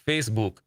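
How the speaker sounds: "Facebook" with a long "oo" in "book"; imitated friend's pronunciation. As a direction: say "Facebook" as "face-book", book drawn to "boook". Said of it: "the way he says book".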